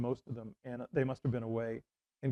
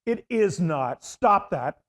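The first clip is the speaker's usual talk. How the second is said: louder and higher, cutting him off; annoyed scolding; 5 semitones higher, 7 dB louder, much slower than usual. Retold or imitated. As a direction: tell a prankster to knock it off. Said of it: "And she went".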